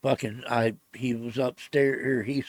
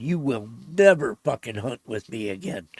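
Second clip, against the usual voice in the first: angry ultimatum; 4 dB louder than usual. Retold or imitated. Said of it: "I was mad".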